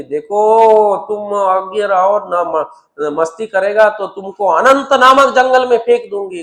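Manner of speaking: a mother wagging her finger, half in play; scolding threat. Retold or imitated. Jungle woman threatens her naughty child: loud scolding.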